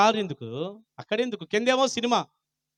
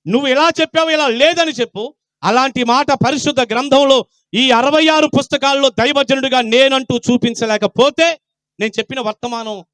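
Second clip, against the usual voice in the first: loud, raised preaching voice; forceful preaching; 5 semitones higher, 7 dB louder than usual. Real, not acted. Preacher challenging the congregation to check the Bible, forceful. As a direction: throw down the challenge at full voice.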